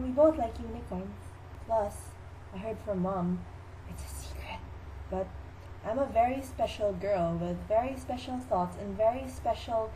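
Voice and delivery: lightly voiced dreamy girl, halting; dotty sister. Sister confides why she resembles Laura, mock-dreamy. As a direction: pause childishly, hushing the secret. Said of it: "Now my sister to talk about".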